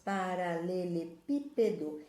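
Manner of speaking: slow, each syllable of "Paralelepípedo" drawn out for the class; teacher stretching "Paralelepípedo" for pupils. Shown as a demonstration. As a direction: spell out "Paralelepípedo" slowly, syllable by syllable. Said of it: "paralelepípedo tem sete sílabas".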